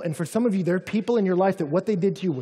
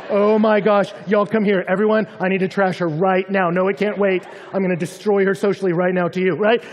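loud, rising jealous rant, picking up speed; a hammed-up jealous outburst; 4 semitones higher, 8 dB louder than usual. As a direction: fume like a rival just touched his arm. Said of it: "you're like".

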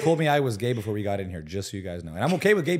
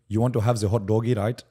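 mock Indian accent; 6 dB louder than usual. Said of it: "Indian scammer".

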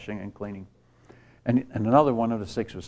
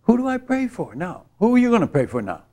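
anguished cry; 10 semitones higher, 4 dB louder than usual. Real, not acted. Despairing after losing people prayed for.

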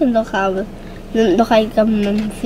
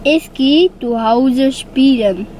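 German; much slower than usual. Pretend. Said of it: "doe een zinnetje".

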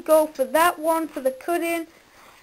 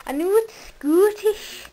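put-on Scottish accent, pitched higher; 4 semitones higher than usual. Admitting to friend it's Scottish, Scottish accent. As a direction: answer back in mock Scottish. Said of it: "Stop doing a Scottish accent".

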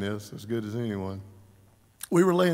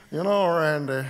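imitating Les; 3 semitones higher, 5 dB louder than usual. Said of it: "we talked like him a lot".

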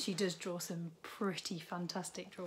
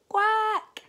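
high, loud squawked quack; fed-up duck; 14 semitones higher, 13 dB louder than usual. A narrator's reading. Overworked duck answering the lazy farmer, high loud quack. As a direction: blast the quack out. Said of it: "The duck answered".

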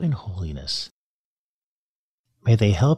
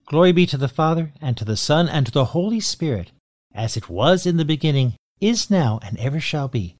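brisk, devout recitation of the doxology; prayer recitation. Acted. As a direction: rattle it off like a familiar prayer. Recites Glory Be.

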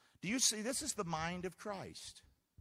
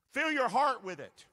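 urging; 7 semitones higher, 9 dB louder than usual. Real, not acted. Preacher urging the congregation.

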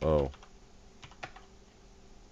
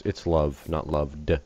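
love plain, loved with the D stressed to correct it; much slower than usual. Shown as a demonstration. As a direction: lean on "love" then mark the final D of "loved". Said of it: "I didn't mean to put the D".

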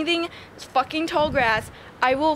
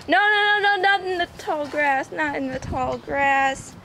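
urgent no; 3 semitones higher than usual. Real, not acted. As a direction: stop the dog before the grass. Stopping dog from tall grass.

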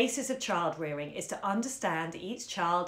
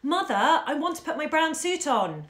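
put-on louder, higher insistent boy; child calling out louder; raised voice; 8 semitones higher, 5 dB louder than usual. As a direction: raise your voice, demanding. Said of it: "He raised his voice".

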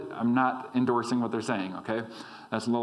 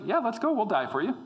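higher, louder eager rally; bold eager Thomas; 9 semitones higher, 3 dB louder than usual. Pretend. Thomas urging the disciples to die with Jesus, eager and bold. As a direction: fire it up like a brave follower. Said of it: "Maybe that's how he said it".

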